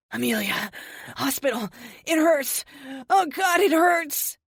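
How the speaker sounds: injured man crying out in pain. A narrator's reading. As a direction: beg for help through the pain. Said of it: "he cries".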